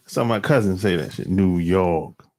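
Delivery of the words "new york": put-on low, drawn New York accent on "New York". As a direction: say it like a New Yorker. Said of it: "That's how they talk".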